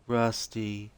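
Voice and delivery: put-on high, slow, dreamy young woman's voice; spacey and childlike, drifting; dazed Rose. Rose answering the agent's questions, dazed and high-voiced.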